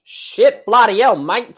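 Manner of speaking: hammy Australian put-on, bloody hell mate; quick self-mocking Australian accent apology; crap Australian accent. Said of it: "that's a crap Australian accent".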